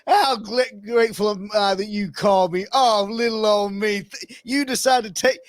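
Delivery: high, gushing gratitude, nearly crying; overwhelmed sweet thanks, pitched high; gushing preacher. Retold or imitated. Preacher thanks the threatening caller, high gushing gratitude. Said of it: "he just went".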